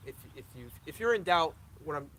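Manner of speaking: tripping over the words, stuttering. Real, not acted. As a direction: stutter and restart, tired. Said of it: "I'm stuttering 'cause I'm out of it".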